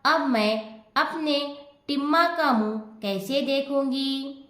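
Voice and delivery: mild wailing lament. Acted. Mother beating her chest over her stuck son, mild lament. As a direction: beat the chest, mildly hammed-up lament. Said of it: "सीने पर हाथ मारती हुई".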